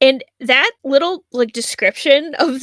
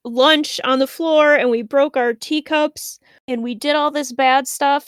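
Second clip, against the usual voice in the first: higher, eager kid voice bragging about being bad; proud kids showing off their mischief, pitched up; eager little girls; 4 semitones higher than usual. Girls boasting to stranger.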